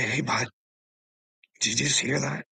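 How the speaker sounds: polite ask. Retold or imitated. Man imitating how he should have asked the cop, polite and calm. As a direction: ask nicely, keep it friendly. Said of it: "And you say".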